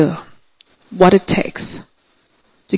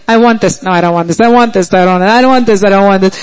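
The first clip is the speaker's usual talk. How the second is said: wavering back and forth; much faster than usual. Acted. People torn between heart and mind, wavering. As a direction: argue with yourself, each answer dropping in pitch.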